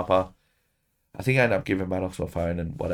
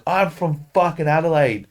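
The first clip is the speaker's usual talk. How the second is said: slow, higher mock boast; mocking the man; 7 semitones higher, 4 dB louder than usual. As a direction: drag it out like a dopey tough guy. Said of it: "He's like".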